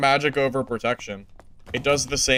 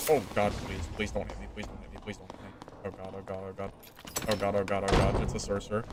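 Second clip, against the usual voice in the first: terrified gibbering; 5 semitones lower, 10 dB quieter, faster than usual. Pretend. Pretend panic as sorcerer nears.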